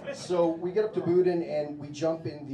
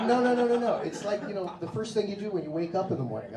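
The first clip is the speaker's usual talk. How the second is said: insistent Swede; 5 semitones higher, faster than usual. Retold or imitated. A Swede correcting the American, higher insistent denial. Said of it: "He's like".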